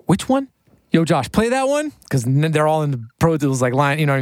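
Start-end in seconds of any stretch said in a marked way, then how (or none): 0.1-1.9 high, pitched-up rapper voice calling out; impression of a rapper. Rapper asking engineer Josh to play a song, high hyped voice. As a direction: jump way up in pitch like a hyped artist. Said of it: "he's like".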